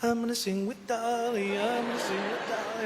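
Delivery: high, giddy chant; giddy singsong. Retold or imitated. Son after a singer's call, giddy high chant. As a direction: bounce it like a happy kid dancing. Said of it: "I'm dancing around".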